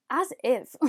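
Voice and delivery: a quick, self-mocking stab at an American Valley-girl "As if"; bad American accent. Beauty vlogger quoting Clueless on the nail box, mock American accent. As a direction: toss off "As if" in a deliberately poor American accent, barely changing your own voice. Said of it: "That was the worst accent ever".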